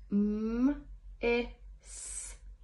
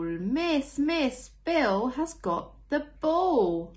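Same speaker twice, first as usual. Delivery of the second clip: put-on high, loud, slow tattling child voice; telling tales; 6 semitones higher, 4 dB louder, much slower than usual. Teacher reading a picture book, voicing a tattling child. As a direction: whine it to the teacher like a telltale.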